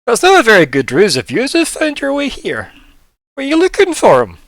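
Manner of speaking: high, loud put-on voice; sloth character. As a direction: challenge them loudly as the sloth. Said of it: "like, Sloth's like".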